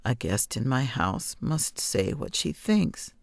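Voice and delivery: put-on a calm, knowing old woman; old witch voice. Old witch speaks to child.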